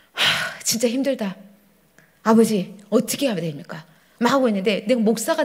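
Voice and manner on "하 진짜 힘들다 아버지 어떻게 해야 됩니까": worn-out retold prayer, sinking at the end; exasperated sighing. Stuck driver asking God what to do, acted as exasperated sighing. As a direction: sigh it out in weary frustration. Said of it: "짜증이 딱 나면서".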